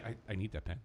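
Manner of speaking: low, hushed mock plea; Paul Heyman. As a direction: quietly voice his imagined protest. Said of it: "And Heyman's like".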